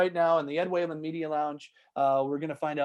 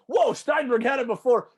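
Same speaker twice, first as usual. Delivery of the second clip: impressed listener; 8 semitones higher, 7 dB louder than usual. Retold or imitated. Imagined listener reaction.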